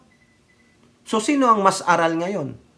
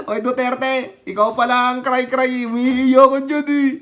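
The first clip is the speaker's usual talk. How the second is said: high, rising taunt; mocking jeer; 6 semitones higher, 5 dB louder than usual. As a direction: tease loudly and high, building into laughter. Mocking Duterte as crybaby, laughing.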